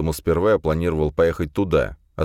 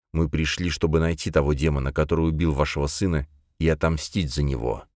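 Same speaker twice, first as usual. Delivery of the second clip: steely voice. Acted. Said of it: "Мой голос лязгнул сталью".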